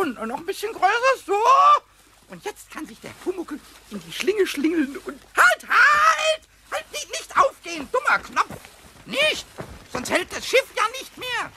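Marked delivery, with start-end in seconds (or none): 5.4-9.4 sudden high yell of alarm; alarmed shout. Acted. Pumuckl yelling as the knot slips loose, alarmed shout. Knot comes undone, boat drifts.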